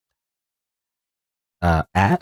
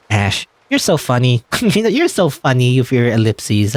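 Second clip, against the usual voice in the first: forced giggle. Acted. Laughs at silent Ash.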